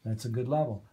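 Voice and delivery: brisk, even radio delivery; normal on-air voice. Shown as a demonstration. Trainer showing a good mic level, normal on-air voice. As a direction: settle into a quick, controlled announcer level. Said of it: "I'm gonna talk like this on the air".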